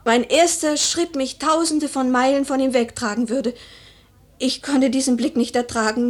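overwhelmed by the memory, voice swelling; anguished outburst. Acted. Widow reliving her husband's dying stare, anguished and loud.

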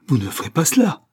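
high, loud protest; barely contained violence. A narrator's reading. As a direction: forbid it, anger breaking through. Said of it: "avec une violence mal contenue". (violence mal contenue)

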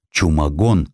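ordinary delivery, nothing marked

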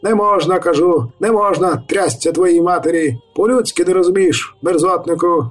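high, angry mayor yelling no; mayor shouting. A narrator's reading. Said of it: "Крики Війта".

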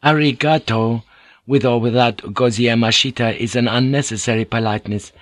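lightly voiced humble interpreter; Mariko, courteous. Mariko translates Fujiko's language correction, lightly voiced and courteous.

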